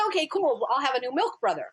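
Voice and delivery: a hint of a cheerful four-year-old; happy little boy. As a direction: son accepting the news, lightly childlike. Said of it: "And he says".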